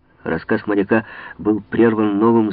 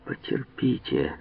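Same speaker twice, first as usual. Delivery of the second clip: with a smile; 6 semitones lower, 9 dB quieter, slower than usual. A narrator's reading. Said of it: "сказал Монк с улыбкой".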